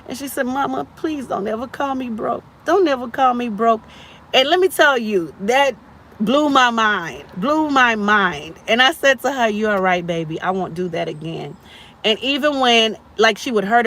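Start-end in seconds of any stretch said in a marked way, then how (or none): 0.5-3.8 higher-pitched pleading little girl, retold; imitated upset child. Three-year-old daughter asking mama not to call her broke, imitated pleading. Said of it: "she cried at three years old". 9.5-11.5 low, soft apology, retold; soothing mother. Mother retelling her apology to her three-year-old, soft and soothing.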